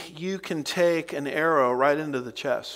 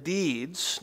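deeds given emphasis; stress on deeds; 2 semitones higher, 3 dB quieter than usual. Shown as a demonstration. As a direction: put the weight on deeds. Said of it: "notice the emphasis on deeds".

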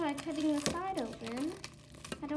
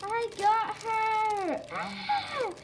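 excited squeals; 6 semitones higher, much slower than usual. Real, not acted. Kid unboxing her dream toy, squealing with joy.

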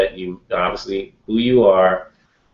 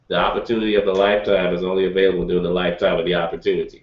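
quick laughing quip; 3 semitones lower, much faster than usual. Shown as a demonstration. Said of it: "I'll say it like this".

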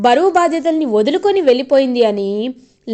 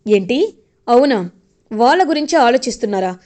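sarcastic retort. Retold or imitated. Manohari scoffing at Chemba about the kids, sarcastic. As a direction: drag it out like you don't believe a word.

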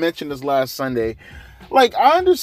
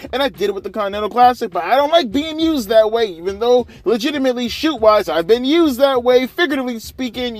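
much higher, mocking whine; pissed-off wrestler mocked in a high whiny voice; 9 semitones higher, 3 dB louder than usual. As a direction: parody him complaining, pitched way up. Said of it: "pissed off 'cause he's like".

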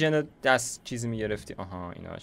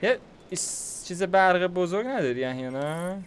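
agitated questioning; 7 semitones higher than usual. Real, not acted. Frustrated asking about power.

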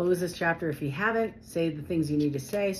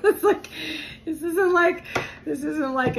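exasperated; 10 semitones higher, 5 dB louder than usual. Real, not acted. High exasperated laugh.

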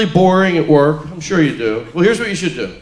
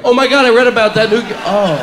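fake excitement; 3 semitones higher than usual. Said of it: "Someone's like".

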